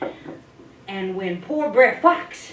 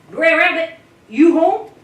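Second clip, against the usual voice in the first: loud, higher call through the door; 6 semitones higher, 9 dB louder than usual. Acted. Brer Wolf calling at Brer Rabbit's door. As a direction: call out to the house.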